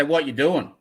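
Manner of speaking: Australian "What you doing" run together; Australian "What you doing" said lazily and fast; Aussie clipped. Shown as a demonstration. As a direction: clip it like an Aussie. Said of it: "we just say".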